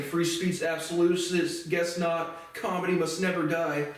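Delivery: mild mock of free-speech fans; mocking the right. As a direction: lightly parody a smug pundit. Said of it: "the right saying".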